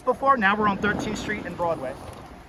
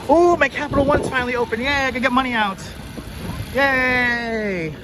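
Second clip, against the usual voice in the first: high, bright cheer at good news; excited yay; 6 semitones higher than usual. Real, not acted. Finally able to get money out, cheering happily. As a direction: cheer like the bank just opened for you.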